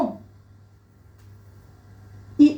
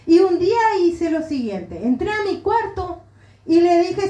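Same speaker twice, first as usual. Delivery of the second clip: usual speaking voice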